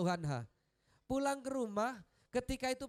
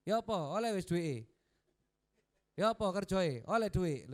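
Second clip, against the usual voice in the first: louder, sharp Javanese scolding; mock nagging wife; 5 dB louder than usual. Wife nagging her husband the moment he comes home, mock angry. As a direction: demand the money, mock angry. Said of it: "langsung ngamuk-ngamuk".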